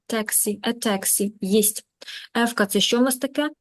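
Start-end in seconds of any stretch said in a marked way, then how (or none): 0.1-1.3 "taxi" stressed on the first syllable; teacher showing the stress, TAX-i in "taxi"; stress demonstration. Shown as a demonstration. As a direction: lean on the "ta" of "taxi". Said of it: "Наголос, мої хороші".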